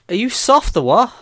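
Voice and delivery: high, lifted Scouse lilt; Scouse accent. Shown as a demonstration. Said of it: "say with a Scouser's accent".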